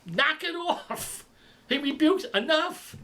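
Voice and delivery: high, forceful rebuke; commanding the storm. Pretend. Jesus commanding wind and sea, forceful rebuke. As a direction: order the wind to stop. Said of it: "he just goes".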